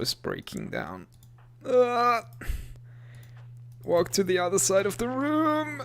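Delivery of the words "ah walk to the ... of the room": high loud panicked orders; panicked yell. Real, not acted. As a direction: shout in alarm. Door breaking down.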